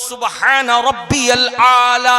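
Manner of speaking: slow, loud chant with long vowels; unhurried, composed recitation. Shown as a demonstration. Preacher showing how to recite in sajda, slow and composed. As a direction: recite it with full composure, stretching it out. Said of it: "इत्मीनान से बोलो".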